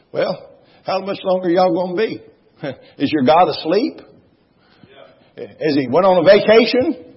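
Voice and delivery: teasing, needling the false prophets; mocking taunt. Elijah taunting the prophets of Baal, mocking. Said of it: "he just really riddled them".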